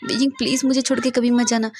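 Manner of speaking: a lover crying, begging not to be left; tearful pleading. Acted. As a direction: beg her not to leave, voice breaking. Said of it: "वांग जी बहुत बुरी तरह से रो रहा था".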